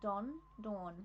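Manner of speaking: short O in Don, long AW in Dawn; distinct Don and Dawn. Shown as a demonstration. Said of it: "No, they're very different".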